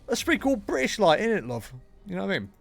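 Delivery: hammed-up British, pitched high then dropping; lightly exaggerated British lilt; mock British accent. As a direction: parody your own British accent. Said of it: "a mockery of their own accent".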